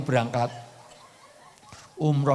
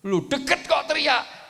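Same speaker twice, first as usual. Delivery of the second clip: mock disbelief; 11 semitones higher than usual. Mocking the shouting angry man.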